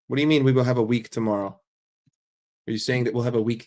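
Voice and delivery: fast, baffled what-do-you-mean; incredulous question. Real, not acted. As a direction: ask it in disbelief, quickly. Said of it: "Wait, what?".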